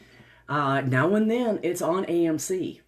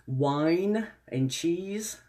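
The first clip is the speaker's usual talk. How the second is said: savoring; 4 semitones higher, much slower than usual. Shown as a demonstration. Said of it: "repeated in two ways".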